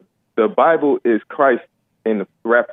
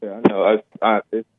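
far from mic; 3 semitones lower, much faster than usual. Real, not acted. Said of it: "You're coming in so muffled".

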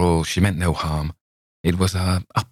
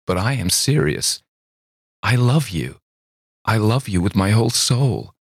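higher, insistent love declaration; earnest young woman; 5 semitones higher than usual. A narrator's reading. Girl insists to Campbell she loves him, earnest. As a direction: insist you mean it.

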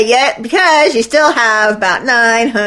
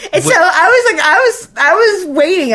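words pushed out through real laughter, higher; laughing while talking; 8 semitones higher than usual. Real, not acted. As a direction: try to talk while still cracking up. Still laughing while telling.

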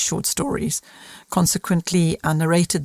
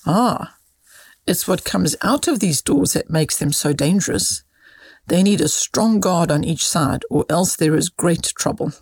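lively, measured storybook reading; expressive story read aloud; children's story narration. A narrator's reading. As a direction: read a short moral tale to children.

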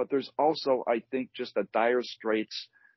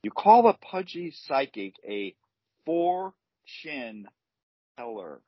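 punchline delivery; 3 semitones higher, slower than usual. Shown as a demonstration. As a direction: build up, then drop the pun. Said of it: "I'm gonna give it my best shot".

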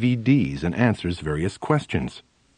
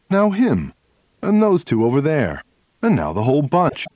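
mock eager pointing out; 5 semitones higher than usual. Pointing out more and more starers.

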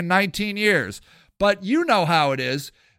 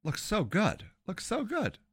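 longing murmur; 3 semitones higher, 11 dB quieter than usual. Acted.

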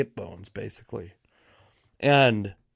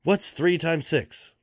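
high, slow demanding question; mock yelling; 5 semitones higher, slower than usual. Old boss quizzing the room on sums, mock yelling. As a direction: imitate a yelling boss, pitched up. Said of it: "this old lady is yelling".

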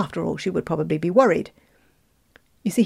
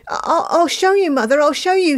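much higher, louder stammering protest; upset boy; 10 semitones higher, 6 dB louder than usual. A narrator's reading. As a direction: stammer back at his mother. Upset boy defends himself.

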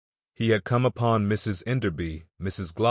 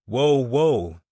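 raised coaxing call after a horse; calling whoa; 4 semitones higher, 5 dB louder than usual. Acted. Naked man calling after his wandering horse, coaxing. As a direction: coax the runaway horse to stop.

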